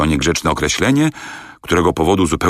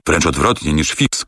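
usual speaking voice

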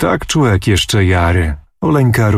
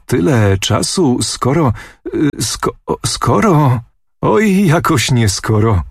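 higher, slow, stumbling teasingly over skoro; teasing with a laugh; 5 semitones higher than usual. A narrator's reading. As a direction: toy with the word skoro, half laughing. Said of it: "odrzekł, śmiejąc się".

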